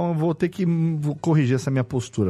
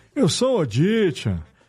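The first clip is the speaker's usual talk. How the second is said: put-on elderly voice, higher and slower; 4 semitones higher than usual. A speaker imagines a friend's father saying a line, imitating an old man voice. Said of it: "a voz de idoso é quando você chega".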